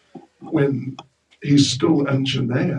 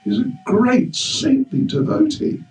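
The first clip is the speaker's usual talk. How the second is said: chastising; 5 semitones higher than usual. Acted. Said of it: "came and chastised Hanuman".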